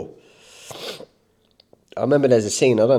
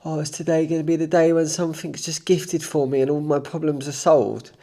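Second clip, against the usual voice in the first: higher, whiny mock of wishful thinking; mocking weak mindset; 5 semitones higher than usual. Mocking people who wait for luck, whiny voice. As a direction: lampoon the lazy dreamer hoping for a gift. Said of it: "we have this weak mentality".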